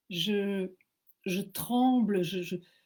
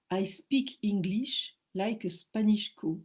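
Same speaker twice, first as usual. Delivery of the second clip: broken English; slower than usual. Retold or imitated. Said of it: "et je, je dis".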